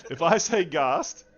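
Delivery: laughing. Real, not acted.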